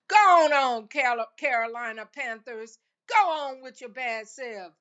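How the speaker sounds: loud, excited call to the team; excited cheer. Real, not acted. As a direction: cheer them on loudly. Cheering on the Panthers.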